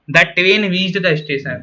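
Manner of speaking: very slow and even; slow dictation. Shown as a demonstration. Teacher reading the example slowly to the class. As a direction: read the sentence slowly. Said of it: "अब मैं आपकी गलत कर देता हूँ ये proof".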